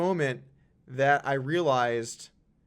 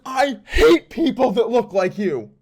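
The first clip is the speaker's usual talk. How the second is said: slow, high, very loud hateful shout; furious yelling; 9 semitones higher, 12 dB louder, slower than usual. Retold or imitated. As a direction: imitate a man yelling with open hatred. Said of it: "he just starts yelling at me".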